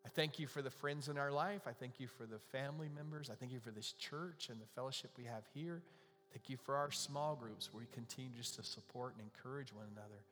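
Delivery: earnest public prayer, evenly paced. Real, not acted. Pastor praying over the lonely in the congregation, earnest and subdued. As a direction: lead a heartfelt prayer in a restrained tone.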